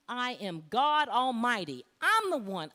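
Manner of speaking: loud, high, emphatic proclamation; thundering divine declaration. Retold or imitated. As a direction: proclaim it with full divine authority. Voicing God's rebuke, retold.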